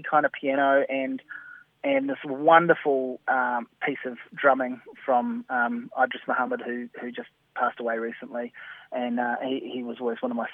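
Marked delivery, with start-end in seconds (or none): 1.8-8.5 slow, fond and gushing; adoring. Real, not acted. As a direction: savour each word with love. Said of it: "how bonkers I sound, gushing".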